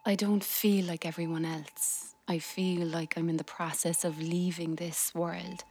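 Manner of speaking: subdued inner monologue read; reflective voiceover. A narrator's reading. Wife's voiceover reflecting on illness, subdued.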